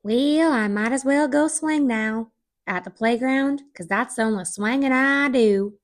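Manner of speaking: smoker's rasp. Pretend. Continuing raspy old-lady bit.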